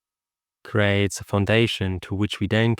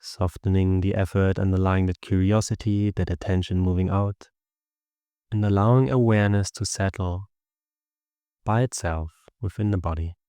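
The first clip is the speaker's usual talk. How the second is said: even, unhurried meditation guidance with long pauses; steady meditation voice, little pitch movement; guided meditation. Acted. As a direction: guide listeners gently into the body and breath.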